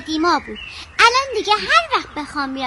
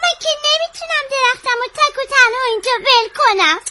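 higher-pitched, upset pleading; tearful protest; 5 semitones higher than usual. Acted. Child refusing to leave the tree alone, tearful. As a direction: protest through rising tears.

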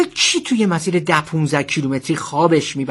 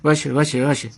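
panicked giving in; faster than usual. Acted. Driver backs down at threat to phone, panicked giving in.

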